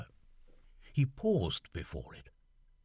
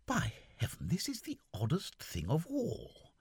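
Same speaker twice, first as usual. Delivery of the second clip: put-on raised, puzzled young officer; lightly voiced young gentleman puzzled; Seaforth's voice; 10 semitones higher than usual. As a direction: fret aloud as the lieutenant.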